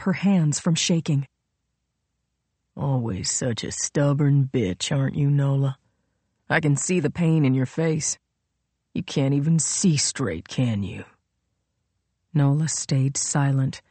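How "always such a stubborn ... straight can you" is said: taunting villain. Acted. Royal needles the wounded Nola, taunting villain.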